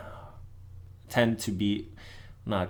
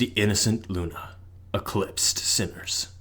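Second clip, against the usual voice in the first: announcer voice. Shown as a demonstration. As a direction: boom out the title like a movie trailer. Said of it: "let me do my announcer voice".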